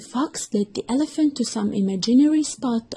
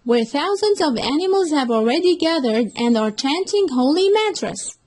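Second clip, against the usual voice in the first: high, louder eager fox voice; fox explaining; 7 semitones higher, 4 dB louder than usual. Acted. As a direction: lure him with grand promises. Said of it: "The fox further explained".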